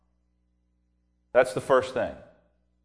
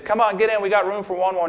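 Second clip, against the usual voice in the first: rowboat rescuers; 5 semitones higher, faster than usual. Retold or imitated. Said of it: "They said".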